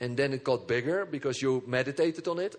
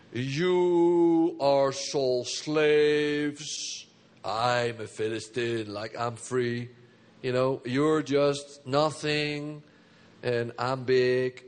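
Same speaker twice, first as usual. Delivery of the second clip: slow, drawn-out mocking boast; lightly voiced Goliath taunt; taunting giant; 2 semitones lower, 4 dB louder, much slower than usual. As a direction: sneer down at the armies.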